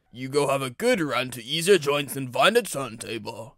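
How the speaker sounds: gentle touch in a character voice; kindly. A narrator's reading. Director sending Henry off to find a turntable, kindly. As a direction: send them off kindly. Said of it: "said the director kindly".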